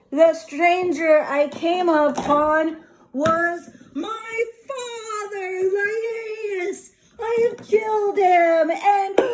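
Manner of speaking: mock-despair rising into a cry; anguished realization. Oedipus realizes he killed his father, hammed-up anguish.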